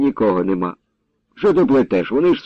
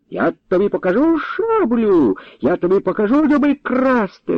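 high, yelling threats; captain yelling threats at Danylo; 9 semitones higher than usual. A narrator's reading. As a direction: bluster from a safe distance. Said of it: "репетував сотник".

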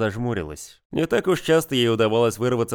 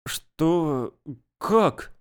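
surprised; 5 semitones higher than usual. Acted. Sveta shocked at news.

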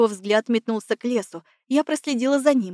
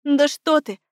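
sarcastic smirk; 4 semitones higher, 4 dB louder, slower than usual. A narrator's reading. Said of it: "ухмыльнулась Лиандра".

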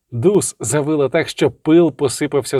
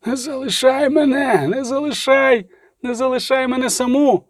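pleading woman; 11 semitones higher than usual. Acted. Жіночий голос благає. (жалібний високий жіночий голос, повільно)

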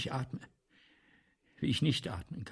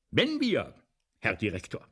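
insistent plea; 4 dB louder than usual. Retold or imitated. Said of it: "sage ich".

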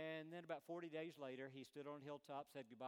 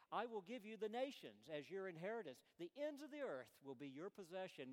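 booming royal decree; 6 semitones higher, 5 dB louder than usual. Acted. Father's decree quoted.

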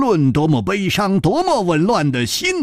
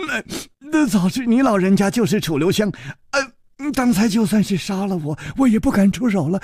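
higher, stammering servant's voice; the servant stammering his shame, higher voice; timid young servant; 5 semitones higher, faster than usual. Acted. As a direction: falter out the words, ashamed. Yijian apologises.

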